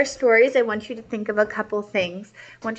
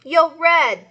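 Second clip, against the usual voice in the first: purring truck; 7 semitones higher, 6 dB louder than usual. Acted. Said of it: "purred Tink".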